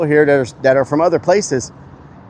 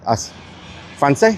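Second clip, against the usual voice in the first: fake French accent; 2 semitones higher, 3 dB quieter, slower than usual. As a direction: ask it in a put-on French accent. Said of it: "Fake French accent".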